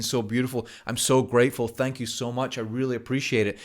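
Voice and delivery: gushing thanks. Acted. Grateful family member voiced.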